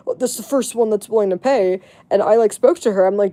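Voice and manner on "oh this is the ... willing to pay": "Oh, this is the first one that's willing to pay" in a light mocking girly tone. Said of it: "you should never be".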